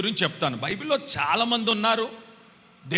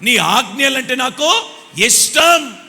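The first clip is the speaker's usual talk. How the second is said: slow, deliberate declaration; slow psalmist devotion; slow fervent quote; 3 semitones higher, 5 dB louder, slower than usual. Acted. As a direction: lay out each word slowly. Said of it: "అని అంటున్నాడు".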